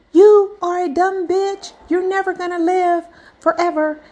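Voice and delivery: high and loud, slowing on the insult; frustrated yell. Retold or imitated. Annoyed telemarketer insulting a caller who won't buy, shouting. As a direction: bark the insult, then sneer the rest. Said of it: "He got so frustrated with me".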